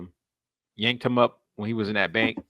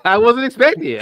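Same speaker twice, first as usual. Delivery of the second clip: higher, louder, laughing through it; laughing protest; 12 semitones higher, 9 dB louder than usual. Real, not acted. Teased by friends, laughs while defending himself.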